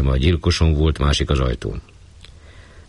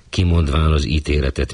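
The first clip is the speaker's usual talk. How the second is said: plain reading voice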